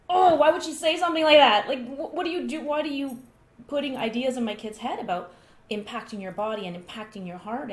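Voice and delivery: high, loud, indignant disbelief; shocked reaction. Retold or imitated. Mother reacting to son's teacher's words, shocked. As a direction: rise up in outraged surprise. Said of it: "my initial reaction was".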